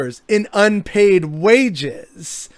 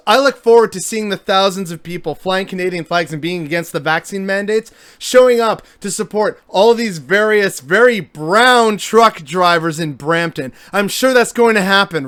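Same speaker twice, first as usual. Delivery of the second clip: dry sarcasm; 2 semitones higher, 5 dB louder than usual. Real, not acted. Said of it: "the dry sarcasm in my voice".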